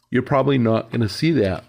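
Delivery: talking through a yawn. Real, not acted. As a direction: yawn mid-sentence. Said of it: "Excuse me, I'm yawning".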